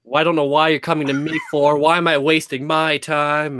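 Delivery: a lightly voiced condescending lecture. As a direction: talk down to them a little. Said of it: "you need to do it in a really condescending voice".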